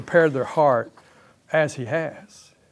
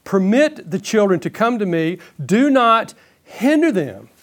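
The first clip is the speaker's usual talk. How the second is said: stern, higher-pitched rebuke; indignant; 4 semitones higher than usual. Acted. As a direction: quote it with mild, firm indignation. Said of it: "He was indignant and said to them".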